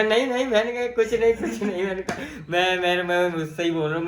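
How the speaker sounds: imitating a nervous stammer, high and loud; flustered stammer. Answering the girl in coaching class, a loud, high, flustered stammer. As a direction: blurt it out flustered and tongue-tied. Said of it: "मेरी जुबान ही लड़खड़ाने लगी".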